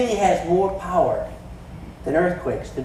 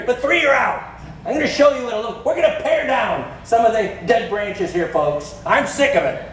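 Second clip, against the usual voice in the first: mock angry boss; 4 semitones higher than usual. Pretend Jesus cutting disciples, hammed-up angry boss. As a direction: ham up a fed-up boss firing people. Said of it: "He's not saying that".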